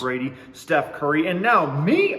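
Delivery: bright salesy sponsor-read voice; hammed-up announcer pitch for the ad; mock ad read. Host hypes his fake crypto sponsorship in a mock ad-read voice.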